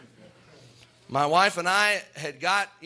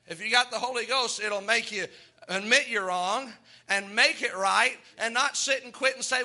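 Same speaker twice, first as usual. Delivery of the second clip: raised, fervent pulpit voice with rolling emphasis; preaching; 4 semitones higher than usual. Acted. Pastor preaching Romans seven to his church, fervent. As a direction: preach it to the congregation.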